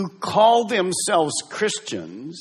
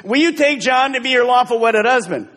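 lightly voiced wedding minister, higher and louder; officiating preacher; 8 semitones higher, 6 dB louder than usual. Pastor marrying the couple, mock solemn vow. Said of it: "he turns to Mary and he says".

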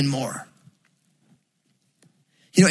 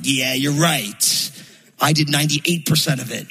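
wry agreement. Retold or imitated. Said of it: "And I'm like".

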